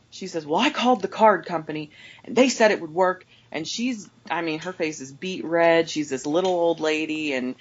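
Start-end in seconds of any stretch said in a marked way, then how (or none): 0.5-3.3 imitated indignant customer, slightly raised voice; mild mock yell. Customer arguing with the cashier about her card, mild mock yelling. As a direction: lightly act out an angry complaint. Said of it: "she yells at me".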